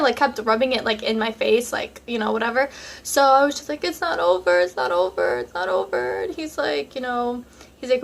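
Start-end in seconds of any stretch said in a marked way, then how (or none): 3.8-4.6 high, desperate first plea; high pleading. Retold or imitated. Begging her ex not to end it: high, desperate plea. 4.6-6.2 low, fading, put-on repeat; low pleading. Begging her ex again: low, fading, put-on plea.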